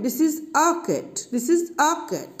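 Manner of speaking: slow model sentence with a reduced to a short uh; slow demo sentence. Shown as a demonstration. Teacher modeling the sentence slowly for students. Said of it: "বলবো আ cat".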